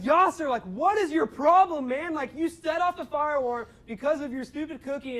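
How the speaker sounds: retold scream. RA yelling at the student cooking through the alarm, loud exasperated yell. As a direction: let him have it, blasting at the cook. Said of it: "I just started screaming at him".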